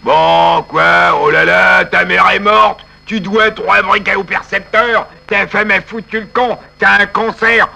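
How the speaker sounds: mock sympathy that is all about me; self-pitying egoist. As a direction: turn every misfortune back to your own little pain. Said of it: "si vous êtes égoïste".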